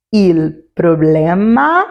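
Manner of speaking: "Il problema" spoken slowly and clearly in Italian; teacher slowly says "Il problema"; Italian example word. Shown as a demonstration. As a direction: model "Il problema" slowly for the learners. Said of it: "Vamos ver uns exemplos?".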